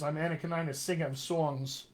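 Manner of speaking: lightly imitated Brooklyn accent; a touch of old Brooklyn movie-actor accent. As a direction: quote the film line in a Brooklyn accent. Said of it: "He kept his Brooklyn accent".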